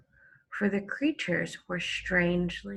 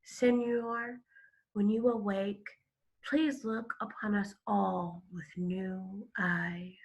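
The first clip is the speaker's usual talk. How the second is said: murmured; 5 dB quieter than usual. Acted. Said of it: "He murmured in his ear".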